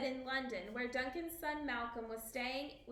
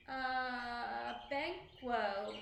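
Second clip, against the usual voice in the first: faltering; much slower than usual. A narrator's reading. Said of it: "Macbeth faltered".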